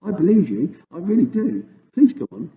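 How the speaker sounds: put-on high, urgent girl pleading; mildly alarmed girl pleading; pleading cry. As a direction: beg him to go on. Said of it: "Sophie cried".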